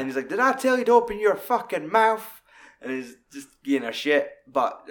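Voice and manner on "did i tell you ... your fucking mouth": high, loud mock-menacing snarl; menacing threat. Film bad guy threatening the woman, high loud mock snarl. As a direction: bark it at her like a thug.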